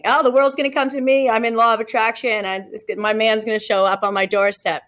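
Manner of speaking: a hint of a dreamy waiting woman; mock dreamy woman. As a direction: tease a passive wishful thinker. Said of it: "the unhealthy feminine can just not do anything".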